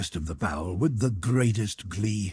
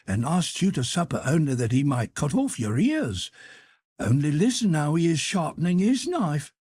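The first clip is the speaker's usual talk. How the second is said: urgent warning; 8 semitones higher than usual. Acted. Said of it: "put her finger upon her lips".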